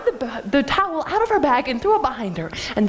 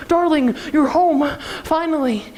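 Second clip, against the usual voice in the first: relieved father; 4 semitones higher than usual. Acted. Frantic father greets returned daughter.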